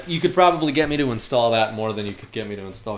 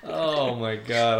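usual speaking voice

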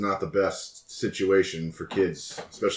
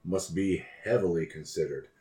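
polite, measured fixer voice; smooth courteous schemer. Acted. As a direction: speak like a sly, courteous broker. Alistair speaks in character.

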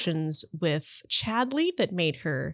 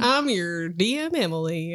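put-on Southern accent; 3 semitones lower than usual. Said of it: "I have a terrible Southern accent".

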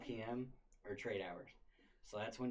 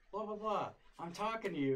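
higher, scolding teacher voice; mocking the teacher; 9 semitones higher, 4 dB louder than usual. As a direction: parody her nagging. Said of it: "she was like".

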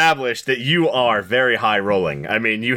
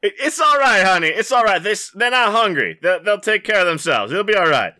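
higher, hesitant husband answering his wife; timid husband; 11 semitones higher, 4 dB louder than usual. Acted. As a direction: stammer it out to placate her.

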